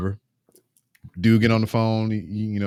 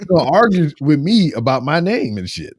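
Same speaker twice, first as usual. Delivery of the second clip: usual speaking voice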